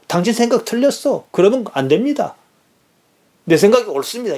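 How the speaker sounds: a touch of Peter telling Jesus he's wrong; Peter rebuking Jesus. Retold or imitated. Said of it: "이 뜻 아니겠습니까".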